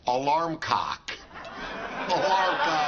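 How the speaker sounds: laughing. Real, not acted. Punchline then echo.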